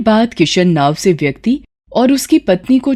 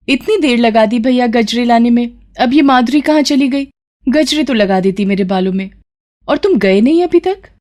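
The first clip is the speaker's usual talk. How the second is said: higher, fussy bride voice; a bride hurrying her helper along; impatient bride; 3 semitones higher than usual. Acted. Bride scolds the garland boy, high and impatient.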